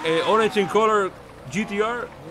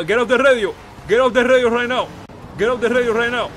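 angry yell; 2 semitones higher, 3 dB louder than usual. Acted. Yelling at a suspect on radio.

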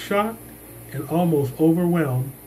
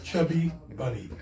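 cheeks stuffed full; 5 dB quieter than usual. Real, not acted. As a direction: mouth full of marshmallows. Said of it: "will stick two marshmallows in my mouth".

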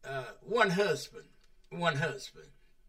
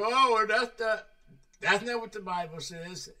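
mock objection; 5 semitones higher, 6 dB louder than usual. Objectors quoted arguing.

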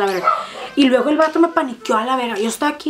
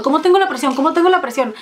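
anxious repeated question; 5 semitones higher than usual. Retold or imitated. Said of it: "todo el parto estuve preguntando".

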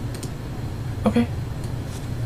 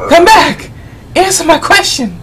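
loud, higher demanding shout; shouting after; 9 semitones higher, 4 dB louder than usual. Real, not acted. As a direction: yell at him to come back. Shouting after a fleeing entrant.

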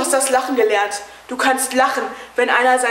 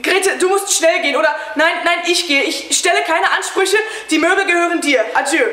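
agitated; 5 semitones higher than usual. Acted. Husband agitated sends wife away.

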